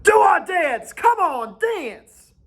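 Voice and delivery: high, loud call to dance; rally them with a yell; rallying shout. A narrator's reading. Jack shouting at the boys to dance, loud. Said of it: "Jack leapt on the sand".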